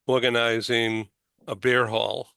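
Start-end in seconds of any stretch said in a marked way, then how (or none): 1.5-2.3 beer hall in a Boston accent, r dropped from beer. Real, not acted. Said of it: "it's my Boston accent coming through".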